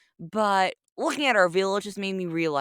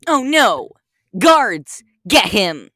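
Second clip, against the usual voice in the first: frightened villager shouting; panicked shout; 2 semitones higher, 6 dB louder, much slower than usual. Acted. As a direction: yell for help in a panic. Villager panics, calls the guards.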